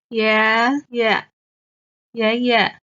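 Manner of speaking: 爷爷 with rising first 爷 and a short light second 爷; neutral tone. Shown as a demonstration. Teacher modelling grandfather word, rising then light neutral. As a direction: rise on the first 爷, clip the second. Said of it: "is the neutral tone".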